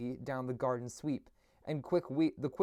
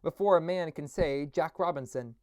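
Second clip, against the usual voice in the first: jovial Fezziwig; 3 semitones higher, 4 dB louder than usual. Acted. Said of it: "cried old Fezziwig".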